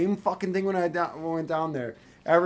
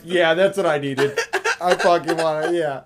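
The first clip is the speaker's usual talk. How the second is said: laughing; 4 dB louder than usual. Retold or imitated. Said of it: "was like".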